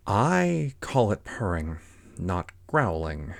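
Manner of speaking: slow, pointed correction; correcting Alice. Acted. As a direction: spell out the objection slowly as Alice. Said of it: "said Alice".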